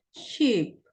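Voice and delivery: sheep with a held ee; long ee. Shown as a demonstration. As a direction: stretch the ee in sheep. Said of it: "es más larga la I".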